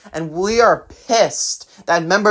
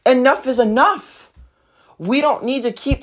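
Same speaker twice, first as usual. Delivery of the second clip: angry outburst; 9 semitones higher than usual. Real, not acted. Angry peak of political rant.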